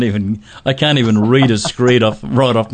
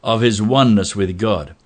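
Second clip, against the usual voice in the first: measured presenter's opening, building to the guest's name; podcast host intro; 3 semitones higher than usual. Acted. Host welcomes podcast listeners and introduces the founder, announcer style. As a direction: announce the show, stretching out the final name. Hosts the scripted show opening.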